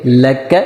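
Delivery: لک read short with a quick zabar, not drawn out; short joined zabar. Shown as a demonstration. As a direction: say لک quickly, no long vowel. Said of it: "جلدی سے ادا کریں گے".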